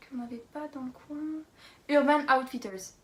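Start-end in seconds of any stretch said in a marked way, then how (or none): 1.9-2.9 put-on "Urban Outfitters" in a proud English accent, a bit louder; showy English accent. Vlogger naming a shop, joking English accent. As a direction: show off a Sunday-best English accent. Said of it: "T'as vu l'accent anglais quand même? La classe".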